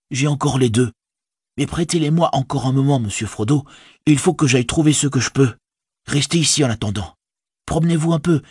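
high, busy hobbit servant; practical Sam. A narrator's reading. Servant planning his master's disguise, high and practical. Sam's dialogue in narrated story.

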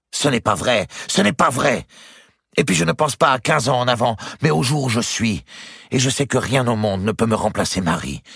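high, heated denial; protesting young lover. Acted. Nephew contradicting his uncle about his love, heated protest. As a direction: protest passionately, pitched well up.

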